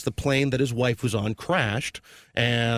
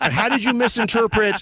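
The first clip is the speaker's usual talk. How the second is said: laughing while talking; 9 semitones higher, 4 dB louder than usual. Real, not acted. Laughing mid-sentence.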